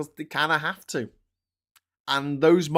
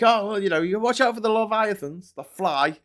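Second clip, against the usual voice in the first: mock warning voice; 8 semitones higher, 3 dB louder than usual.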